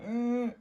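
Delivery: high, loud "eurgh" noise; high strained noise in place of a word; disgusted noise. Shown as a demonstration. Talking of worn socks to viewers, disgusted noise.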